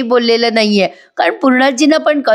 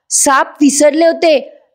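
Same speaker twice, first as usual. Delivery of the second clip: "साप विसरले होते?" asked higher and slower, in angry disbelief; a slow, high, stunned jab at the client; 6 semitones higher, slower than usual. Retold or imitated. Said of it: "Damini चिडते आणि म्हणते". (दामिनी क्लायंटला चिडून अविश्वासाने विचारते, उंच आणि सावकाश स्वरात)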